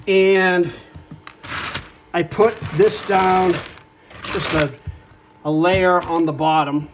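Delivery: talking through an N95 mask; muffled voice behind a face mask. Real, not acted. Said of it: "If I sound a little muffled".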